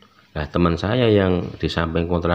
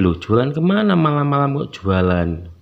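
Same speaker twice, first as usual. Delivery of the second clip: retold incredulous question, high and loud; heran; 8 semitones higher, 6 dB louder than usual. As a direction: act out a baffled neighbour's loud query. Neighbour baffled by selling at midnight. (menirukan tetangga yang terheran-heran)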